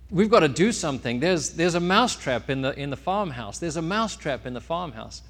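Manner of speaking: mildly panicked, urgent plea; alarmed mouse. Acted. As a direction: urge them to act, a touch frantic. Mouse pleads with the pig.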